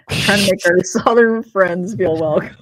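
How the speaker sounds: hammed-up Southern accent, breaking into a laugh; badly faked Southern accent. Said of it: "I can't do that accent".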